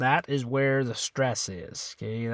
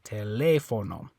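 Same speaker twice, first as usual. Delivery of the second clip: TELÉFONO as te-LEH-fo-no; TELÉFONO stressed on the accented E; stress on second syllable; 2 semitones lower than usual. Shown as a demonstration. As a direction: lean on the LE of TELÉFONO. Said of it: "the stress is on this E".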